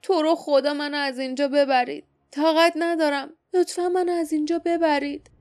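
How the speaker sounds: lightly acted trembling plea to be carried away; stammering plea. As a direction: beg to be taken away, a touch shaky. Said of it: "منمن کنان گفت".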